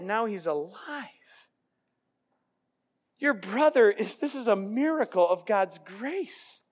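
tender fatherly reassurance; gentle father. Retold or imitated. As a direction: soothe the bitter son tenderly. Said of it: "And the father says".

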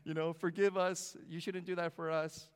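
high, loud mock crying plea; imitated tearful pleading. Crying grandchildren beg grandfather's forgiveness, imitated tearful pleading. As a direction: plead like sobbing kids, hammed up. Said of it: "pouring, crying".

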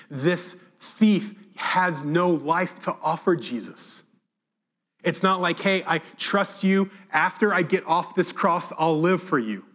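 high, emphatic, drawn-out preaching; impassioned preaching. Acted. Preaches with rising force.

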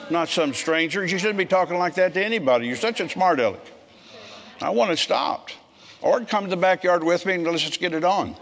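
a father reasserting himself, pitch up and pressing; stern fatherly scolding. Retold or imitated. Retelling confronting teenage son.

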